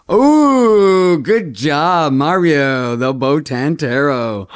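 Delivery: a loud, high squeal of delight; thrilled at the first card pick. Real, not acted. Praising her brother's pick on camera, thrilled.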